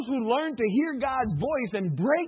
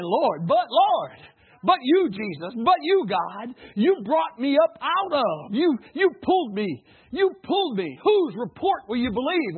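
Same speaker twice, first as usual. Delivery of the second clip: fervent prayer cry; 4 dB louder than usual. Acted. Preacher crying out in prayer.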